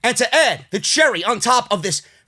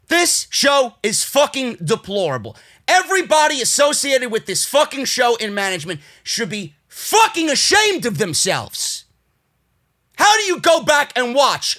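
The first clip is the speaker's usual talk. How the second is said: real angry yell; 3 semitones higher than usual. Real, not acted. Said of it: "You guys think I'm yelling".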